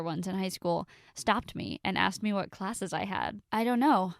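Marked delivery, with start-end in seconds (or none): 3.5-4.1 frightened. Acted. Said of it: "still a bit frightened".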